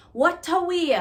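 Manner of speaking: "What a way" leaps high at the start; surprised exclamation. Shown as a demonstration. Teacher models the phrase opening a sentence, surprised. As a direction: open with "What a way" like big news. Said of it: "usually at the start of a phrase".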